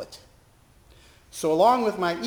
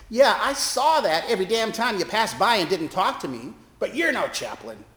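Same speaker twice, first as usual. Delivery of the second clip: higher, louder scornful man's voice; gruff street preacher; 6 semitones higher, 4 dB louder than usual. Retold or imitated. Street preacher scolding the chaplain who ignored him, scornful. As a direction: lash out at her scornfully.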